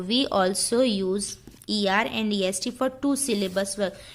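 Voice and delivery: slow, deliberate dictation read. Shown as a demonstration. Teacher dictating the rule slowly to students. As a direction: read each word out slowly for notes.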